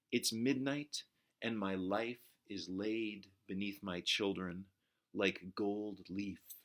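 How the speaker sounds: slow, drawn-out recital of the last line; poem reading. Shown as a demonstration. Teacher reads the poem's last lines in slow recital voice.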